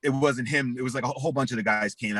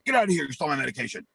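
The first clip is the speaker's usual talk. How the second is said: angry yell; 2 semitones higher, much faster than usual. Retold or imitated. Cousin throwing him out the front door, angry yell.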